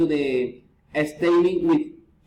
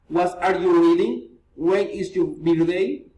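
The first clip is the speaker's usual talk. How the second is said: polite questions, each lifting at its end; friendly upturn on "reading" and "birthday"; rising intonation. Shown as a demonstration. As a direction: raise "reading" and "birthday" at the close. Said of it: "reason, intonation".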